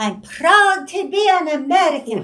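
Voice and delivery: heavy put-on Polish accent. Retell your mother's words to the Carnegie Hall crowd, imitating a thick Polish accent. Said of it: "in her thick Polish accent".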